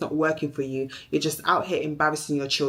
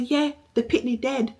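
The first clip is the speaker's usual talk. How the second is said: aunt revealing secret; 3 semitones higher than usual. Retold or imitated. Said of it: "Angie said".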